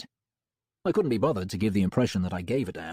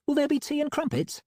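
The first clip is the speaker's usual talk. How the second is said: high, playful female voice; teasing Molly. A narrator's reading. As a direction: tease in a sweet high voice.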